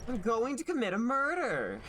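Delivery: hammed-up yelled threat; mock shout. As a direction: yell it in mock fury. Repeats threat louder, mock rage.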